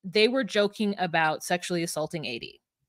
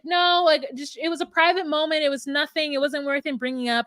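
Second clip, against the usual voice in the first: higher-pitched playing it down; imitated defensive denial; 5 semitones higher than usual. Laura explaining away the bean dip remark, imitated defensive denial. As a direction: act out brushing off an accusation.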